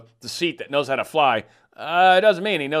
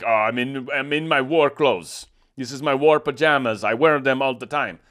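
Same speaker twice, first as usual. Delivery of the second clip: mocking Zelensky's accent. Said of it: "where the hell that accent's supposedly coming from".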